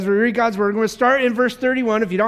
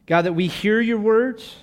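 prayer; 2 semitones lower than usual. Acted. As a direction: hush and pray over the people. Pastor leads closing prayer.

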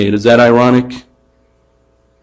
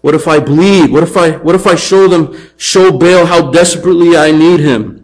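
desperate worshipper; 4 semitones higher than usual. Acted. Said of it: "they're trying everything they can".

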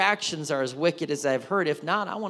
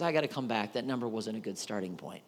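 softer, lower private worry; inner thought; 7 semitones lower, 8 dB quieter than usual. Pretend. Abraham realizing his mistake, quiet inner voice. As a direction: think it to yourself.

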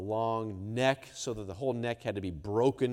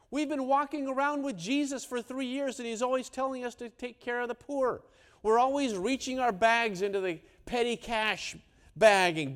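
much higher, indignant protest; complaining disciple; 9 semitones higher, 4 dB louder than usual. Acted. Disciple complaining to the others about the poor, high and indignant. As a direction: whine about the money going to waste.

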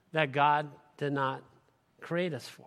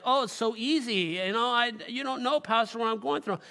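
imitating objector; 6 semitones higher than usual. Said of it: "I'm making it sound like".

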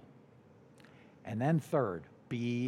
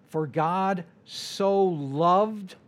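reverent; 4 dB louder, much slower than usual. Acted. Quoting John three sixteen reverently.

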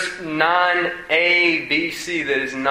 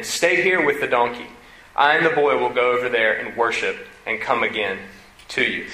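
solemn scripture read. Acted. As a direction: read the verses with weight. Reads scripture aloud.

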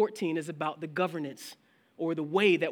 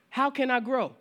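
higher asking believer; eager congregant; 8 semitones higher, 5 dB louder than usual. Retold or imitated. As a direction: ask the pastor earnestly. Voiced congregant.

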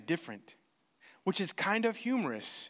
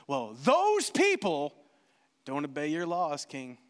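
sly insinuation; 7 semitones lower than usual. Pretend. Haman insinuates to king.

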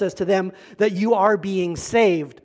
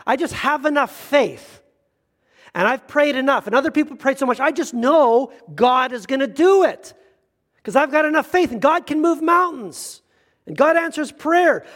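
higher, insistent mock believer; faith-certain believer; 5 semitones higher than usual. Pastor imitates a churchgoer sure prayer guarantees it, lightly hammed. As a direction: act out blind confident faith. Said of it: "the spiritual Christian version".

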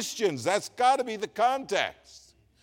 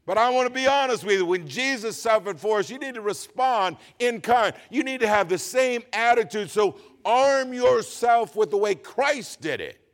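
higher, punchy pulpit delivery; forceful preaching; 5 semitones higher, 5 dB louder than usual. Real, not acted. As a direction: preach it hard, driving each phrase home.

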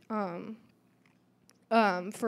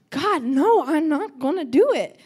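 mock loud refusal, pitch raised; 6 semitones higher, 9 dB louder than usual. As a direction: push back hard, half-acted. Refusing God, retold loudly.

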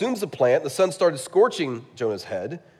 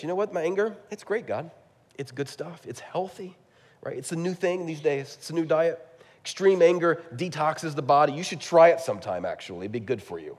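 sarcastic Jonah; 3 semitones higher than usual. Retold or imitated. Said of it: "very sarcastic".

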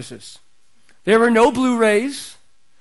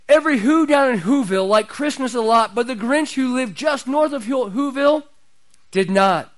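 lightly performed storybook narration; a hint of theatrical story reading; Boris Karloff. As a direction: recite the rhyme like a TV special narrator. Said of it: "Boris Karloff's voice would come on".

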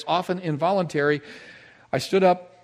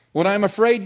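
emphatic; 8 semitones higher, 9 dB louder than usual. Acted. Preacher restating psalm emphatically.

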